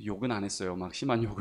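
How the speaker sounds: normal talking voice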